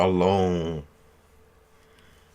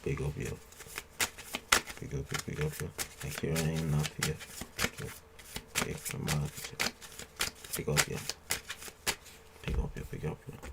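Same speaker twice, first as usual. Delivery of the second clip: soft unvoiced whisper, thanking viewers; whispered shout-outs; 3 semitones lower, 12 dB quieter, faster than usual. Real, not acted.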